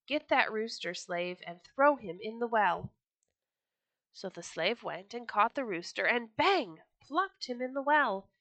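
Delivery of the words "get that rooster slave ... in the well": angry order. Acted. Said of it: "He called a slave and said".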